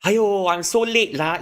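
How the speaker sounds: high, loud, slow Manglish aiyo; Malaysian lament. Shown as a demonstration. Late for the bus, slow loud Malaysian lament. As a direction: wail it slowly, loud and high, Malaysian style. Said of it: "you can say".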